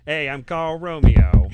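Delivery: big, loud, drawn-out Brooklyn accent. Shown as a demonstration. Wizard introducing himself to visitors, loud hammed-up Brooklyn accent. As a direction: belt it out as a hammed-up Brooklyn guy. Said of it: "trying to think of what a Brooklyn accent sounds like".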